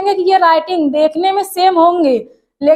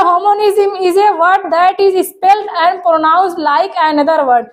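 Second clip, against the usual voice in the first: slow dictation reading; much slower than usual. Shown as a demonstration. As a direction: read the definition very slowly, word by word. Reads definition slowly. (धीमे-धीमे परिभाषा पढ़कर सुनाना)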